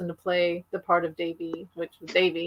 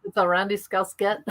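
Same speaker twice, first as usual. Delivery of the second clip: put-on Scouse accent. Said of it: "your accent's better than mine".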